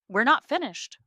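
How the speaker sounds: high, loud call; calling after. A narrator's reading. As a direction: stop someone who is leaving. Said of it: "Ramona calls after me".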